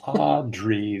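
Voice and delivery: Audrey echoed with an exaggerated rolled r; imitated rolled r. Partner questioning the new pronunciation, mimicked rolled r in Audrey. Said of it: "Where did that roll come in?".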